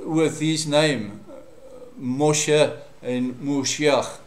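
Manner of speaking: slow, drawn out Moshe and Moshiach; sound link shown. Shown as a demonstration. Teacher showing how Moshe sounds in Moshiach, slow. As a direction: let Moshe and Moshiach echo his name. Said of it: "You can hear that".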